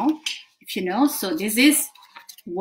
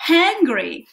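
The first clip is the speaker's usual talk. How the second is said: mock angry; 6 semitones higher, 4 dB louder than usual. Shown as a demonstration. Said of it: "you stamp your feet".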